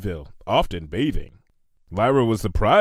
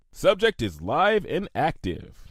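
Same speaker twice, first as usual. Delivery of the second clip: clinical note; 6 semitones higher, slower than usual. A narrator's reading. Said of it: "Twilight noted".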